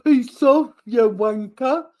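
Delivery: exaggerated fake Aussie accent, drawn-out wanker; mock Aussie accent. Mocking Will's attempt at Aussie, mock Aussie accent. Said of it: "Why are you doing that like".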